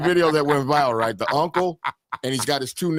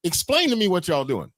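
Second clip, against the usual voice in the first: disbelieving uncle; 8 semitones higher than usual. Retold or imitated. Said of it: "He says".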